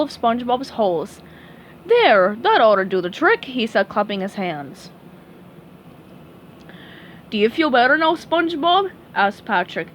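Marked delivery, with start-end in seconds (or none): 1.9-3.5 lightly voiced dopey starfish; Patrick voice. Patrick agrees to play doctor for SpongeBob, dopey eager voice. 7.3-8.9 lightly voiced dopey starfish; slightly higher, eager friend; Patrick voice. Patrick agrees to play doctor for SpongeBob, dopey eager voice.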